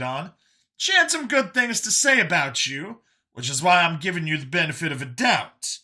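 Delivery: high, animated voice telling his story; high and lively, recounting how he got here; Brian, talkative survivor. Acted. Brian telling Vincent of his capture, high and animated.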